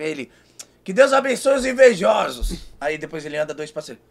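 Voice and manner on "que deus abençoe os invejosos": imitating Kevin. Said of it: "Com aquele jeitão dele".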